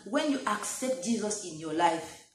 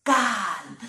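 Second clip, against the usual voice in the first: louder, firm calm; 6 dB louder than usual. Shown as a demonstration. Preacher repeating calm again, louder and firm. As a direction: set the word calm down firmly. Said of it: "Repeat that word".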